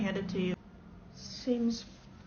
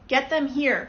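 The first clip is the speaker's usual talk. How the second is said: loud demand; 3 semitones higher, 9 dB louder, slower than usual. Acted. Tourist demanding whales.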